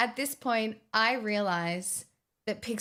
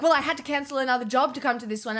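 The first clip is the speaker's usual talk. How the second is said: fast, slightly louder excuse; mock aggressive man; 3 semitones higher, 3 dB louder, faster than usual. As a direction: rattle it off like a pushy tradesman. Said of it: "he's like".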